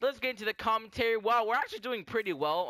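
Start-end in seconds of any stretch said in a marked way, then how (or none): 1.2-2.7 voice crack. Real, not acted. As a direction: voice cracking mid-sentence. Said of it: "that was a really weird voice crap".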